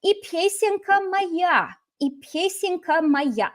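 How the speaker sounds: slow singsong quote; song refrain. Acted. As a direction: draw out the refrain playfully. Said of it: "learn this song".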